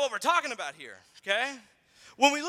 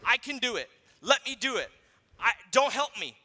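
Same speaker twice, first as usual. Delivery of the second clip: mock four-year-old; 4 dB louder than usual. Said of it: "one kid who says".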